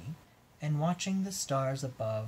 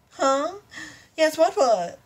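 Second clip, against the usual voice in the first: high squeaky unicorn; 13 semitones higher, 7 dB louder, slower than usual. Acted.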